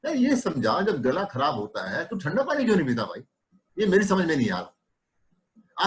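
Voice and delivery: mildly puzzled, as if you know nothing; feigned innocence. Shown as a demonstration. Doctor questioning the patient, feigning innocent puzzlement. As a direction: play innocent, a little naive. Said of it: "आप ऐसे innocent बन जाओ".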